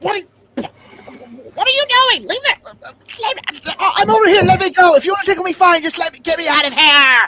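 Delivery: desperate, frantic pleading cries, very high pitch. Narrating to the players as they torment a creature, halfling crying out. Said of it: "you hear cries again from a halfling going".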